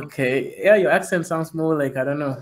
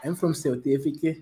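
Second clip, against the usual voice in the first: lightly imitated South African accent. Shown as a demonstration. Showing the others how South Africans sound, South African accent. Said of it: "South African accent is more like".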